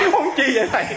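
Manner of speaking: very high, bewildered wail, imitated; distraught protest. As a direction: mimic a caller questioning a baffling order. Caller protests second order to back away. (giả giọng kêu lên thắc mắc)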